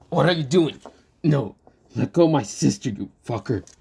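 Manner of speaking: outraged shout. Acted. Lucas yells at Asta to let go of his sister, outraged. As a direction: shout him off your sister.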